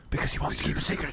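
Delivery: secretive whisper; whispering rhino. Acted. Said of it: "Why are you whispering?".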